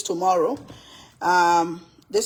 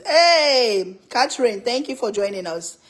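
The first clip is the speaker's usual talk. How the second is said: excited greeting; 3 semitones higher, 6 dB louder than usual. Real, not acted. Greeting new viewer.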